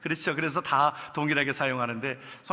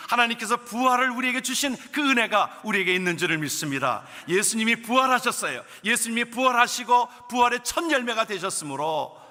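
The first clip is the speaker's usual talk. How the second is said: raised, high, louder preaching voice; fervent preaching; 7 semitones higher, 4 dB louder than usual. Real, not acted. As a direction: preach it with full conviction. Preaching at full force. (힘찬 설교 톤)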